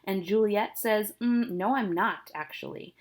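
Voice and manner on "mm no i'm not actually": put-on teenage sass. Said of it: "that teenage sass comes into play".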